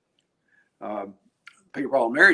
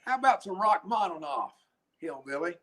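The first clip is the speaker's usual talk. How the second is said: higher, mocking put-on challenge; heckling tower guy; 6 semitones higher than usual. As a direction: imitate a guy taunting a hillbilly. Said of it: "the guy up in the tower named Mike".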